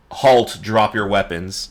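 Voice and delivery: lightly yelled guard command; guard's yell. Acted. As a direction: call a slow, firm halt as a guard. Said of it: "and they yell".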